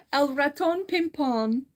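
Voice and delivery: slow, clumsy Spanish accent; bad Spanish accent. Real, not acted. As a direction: sound out the Spanish title with a learner's accent. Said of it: "My horrible accent".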